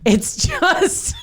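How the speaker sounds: high, drawn-out complaint; slow, high-pitched mock helplessness; mock dismay. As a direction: stretch it out high, as if blinded by dust. Acting out being blinded by dust.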